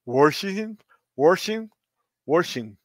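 Washington? repeated, mock-questioning, each time with the R; mocking imitation. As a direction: tease the word Washington? with an R, rising like a question. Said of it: "and he says".

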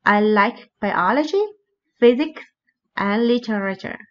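up, up, then down through the list; list intonation. Shown as a demonstration. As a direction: rise on biology, rise on physics, fall on literature. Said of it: "up, up, then down".

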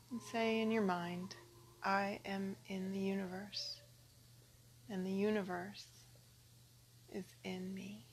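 calm, measured phrases with long pauses; guided meditation. Acted. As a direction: give each short phrase room to sink in. Leads a meditation.

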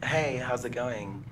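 mock feminine greeting, hushed and drawn out; put-on girly voice. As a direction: stretch it out like a man faking a girl. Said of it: "you're doing an accent".

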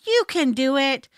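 cheerleader for a dog; peppy, encouraging praise; high-pitched encouragement. Shown as a demonstration. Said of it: "Use a high-pitched".

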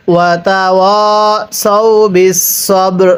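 slow melodic tilawat, drawn-out vowels; slow Quran recitation. Shown as a demonstration. Teacher recites the verse for students, slow melodic chant. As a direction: chant the verse slowly and evenly. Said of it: "আমার সাথে মিলিয়ে পড়ুন".

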